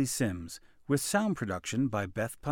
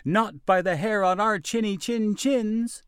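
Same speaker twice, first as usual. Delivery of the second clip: little pigs voice; 9 semitones higher, 5 dB louder than usual. A narrator's reading. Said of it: "the little pigs replied".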